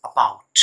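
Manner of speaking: "about" said with a short, weak first "a" (schwa); teacher stressing the "bout" in "about" over a tiny schwa; schwa sound demo. Shown as a demonstration. Teacher showing learners the schwa in a dictionary word, slow and careful. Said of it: "अब ये word देखिए आप".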